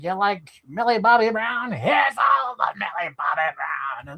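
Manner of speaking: mock shout, offering it all; pushy algorithm shout. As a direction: yell it like a pushy salesman. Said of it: "It's like".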